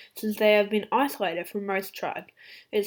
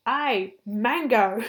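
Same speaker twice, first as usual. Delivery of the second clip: lightly acted call for attention; mock calling out; 2 semitones higher, 5 dB louder, much slower than usual. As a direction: pretend to call someone over. Imagined calling to two dragons.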